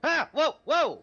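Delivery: surprised whoa. Real, not acted. Player reacts to invisible creature appearing.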